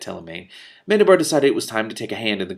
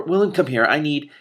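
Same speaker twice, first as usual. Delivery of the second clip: loud, higher urgent calling; shouted call; 6 semitones higher, 6 dB louder than usual. A narrator's reading. King calling his steward, loud and urgent. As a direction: call him in a hurry. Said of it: "Mendembar shouted".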